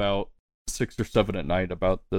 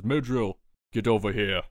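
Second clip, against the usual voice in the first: mild call across bar; 3 semitones higher than usual. Acted. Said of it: "As he calls out through the bar".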